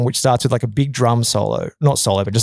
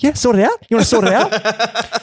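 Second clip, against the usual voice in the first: mock taunt; 8 semitones higher than usual.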